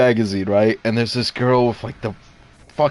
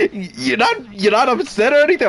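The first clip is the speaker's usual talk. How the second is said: high, incredulous mom imitation; mock maternal alarm, pitched up; freaking-out mom; 10 semitones higher than usual. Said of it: "mom is just freaking out".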